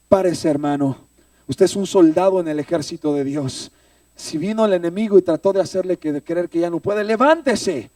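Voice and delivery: loud preacher's exhortation, climbing at the end; forceful retold order; rousing command. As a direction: urge a fallen soldier up onto his feet. Retells brother's rousing command.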